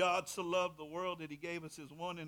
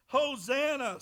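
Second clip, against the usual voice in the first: loud, high Hosanna; crowd's shout; 9 semitones higher, 12 dB louder, slower than usual. A narrator's reading. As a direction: cry it out like the crowd.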